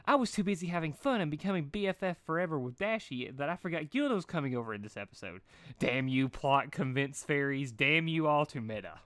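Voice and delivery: high, bouncy pony voice; lightly high Pinkie; Pinkie Pie voice. Acted. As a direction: chatter like the hyper party pony.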